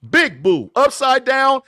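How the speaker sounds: loud, punchy mock heckle; jeering boos. Real, not acted. Panelist heckling Cam over his holdout, loud jeering boos. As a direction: boo him out loud, hitting each boo.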